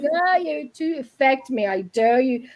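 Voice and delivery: drawn-out mock provocation; defiant dare. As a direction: dare the spirits to try it. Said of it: "giving off these vibes of".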